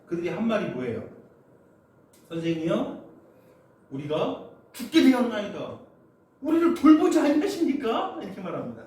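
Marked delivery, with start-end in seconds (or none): 2.3-8.2 rising, louder 돌보지 in a desperate cry; angry plea. Acted. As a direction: cry out to the master in fear and anger. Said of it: "화내는 거예요". (화난 외침으로)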